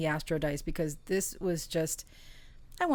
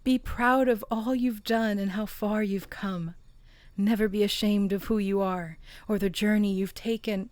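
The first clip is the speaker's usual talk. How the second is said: emphatic, encouraging read-aloud; oracle card reading; 3 semitones higher, 4 dB louder than usual. Real, not acted. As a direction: deliver each phrase as a pep talk to the listener.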